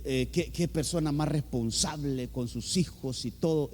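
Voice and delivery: a hint of impressed townsfolk; admiring public opinion. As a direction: quote the neighbours' praise in a lightly put-on low voice. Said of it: "la opinión pública decía eso".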